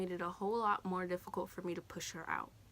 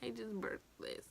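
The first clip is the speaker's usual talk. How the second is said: softer, breathed-out wonder; awed whisper; 3 semitones higher, 9 dB quieter than usual. Retold or imitated. New mother seeing her baby's face, awed whisper. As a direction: whisper it in awe at the newborn. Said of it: "I was just like".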